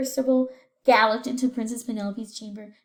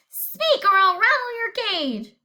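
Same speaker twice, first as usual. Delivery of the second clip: higher, louder screaming threat; parrot scream; 6 semitones higher, 6 dB louder than usual. Acted. Parrot threatening the prince, higher and loud. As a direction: scream it like an angry bird. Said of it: "Then the parrot screamed".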